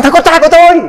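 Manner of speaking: high, joyful mother's voice; proud, bright reveal; mother revealing her son came to church; excited mother. Retold or imitated.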